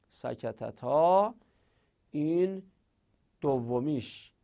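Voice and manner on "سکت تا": سکت تا drawn out slowly, syllable by syllable; slow spelled-out form. Shown as a demonstration. Teacher slowly sounding out سکت تا for students, drawn out. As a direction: stretch each syllable of سکت تا for the class.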